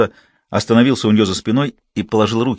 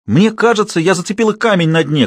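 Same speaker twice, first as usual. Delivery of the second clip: much higher, louder call; girl's shout; 9 semitones higher, 3 dB louder than usual. Acted. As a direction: shout across the pool. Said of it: "крикнула Кайла". (девочка кричит через реку)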